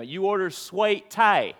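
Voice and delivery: sweet tie in a slow Alabama drawl; mild Southern Alabama accent. Shown as a demonstration. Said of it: "You don't order sweet tea in Alabama".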